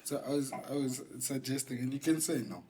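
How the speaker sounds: soft, low, careful suggesting; low-voiced naughty proposal. Real, not acted. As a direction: tread gently in a naughty, coaxing undertone. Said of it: "I don't like this voice".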